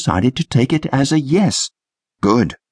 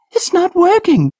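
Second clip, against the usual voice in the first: very high shout; shouting over shoulder; 3 dB louder than usual. A narrator's reading. Trish shouting back to Patrick at the wheel, high shout. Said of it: "she shouted over her shoulder".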